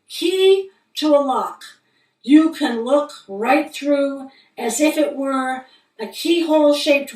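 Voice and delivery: measured poem recitation with deliberate pauses; poetry reading. Acted. Poet reading a moon poem to listeners, measured recital. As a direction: read each phrase as a line of verse. Reads own poem aloud.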